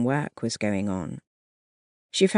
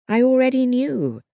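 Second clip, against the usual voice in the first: much higher, louder hurried admission; quick admission; 10 semitones higher, 4 dB louder than usual. A narrator's reading. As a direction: blurt it out to calm him. Nurse placating frightened sergeant.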